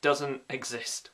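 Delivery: Doesn't exist drawn out slowly; slow emphatic repeat. Shown as a demonstration. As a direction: spell it out slowly, falling. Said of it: "slow repeat".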